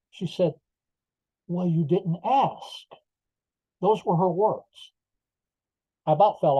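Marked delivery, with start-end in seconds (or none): 1.5-2.9 slow, stretched-out sarcastic retort; mock sarcastic. Superintendent answering the fired employee from the stand, sarcastic. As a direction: imitate a snide reply, drawing the words out. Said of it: "real, real sarcastically, she said".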